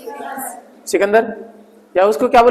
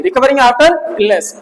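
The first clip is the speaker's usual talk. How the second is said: slow dictation; much slower than usual. Shown as a demonstration. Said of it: "कितना याद रखना है?".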